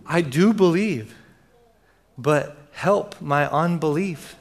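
slow, halting confession, acted; a father's measured, earnest plea; cried-out plea. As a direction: plead slowly, pausing before the admission. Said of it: "The father cried out".

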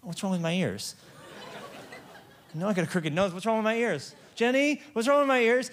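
rising, laughing protest; laughing disbelief. Retold or imitated. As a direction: laugh while asking what's wrong. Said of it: "I said".

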